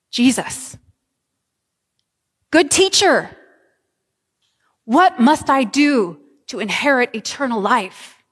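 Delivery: a hint of an eager young man begging; lightly voiced pleading seeker; the rich young man pleads with Jesus, mildly eager.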